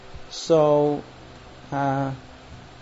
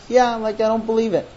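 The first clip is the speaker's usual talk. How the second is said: higher, sceptical brush-off; disbelieving tone; 4 semitones higher than usual. Acted. Husband answering his wife's apology, disbelieving. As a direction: let the doubt show in the voice. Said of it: "he says it in a tone like".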